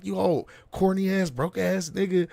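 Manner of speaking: retold scolding; imitated cussing out. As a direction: rattle off insults as an angry woman, lightly acted. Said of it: "She cuss him the fuck out".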